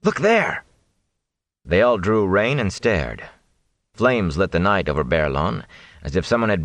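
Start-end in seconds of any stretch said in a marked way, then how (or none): 0.0-0.6 much higher, alarmed cry; high startled call. Acted. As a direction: point back in alarm. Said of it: "Mat cried out".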